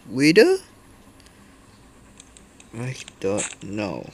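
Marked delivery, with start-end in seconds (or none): 0.1-0.6 sudden loud, high alarmed question; startled. Real, not acted. Gamer spotting a strange mob, startled loud shout. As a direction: blurt it out, caught off guard.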